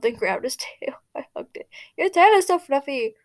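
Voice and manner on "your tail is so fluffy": higher, bright, delighted; happy. A narrator's reading. Girl cuddling his tail, happily delighted. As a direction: gush over the fluffy tail. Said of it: "I said happily".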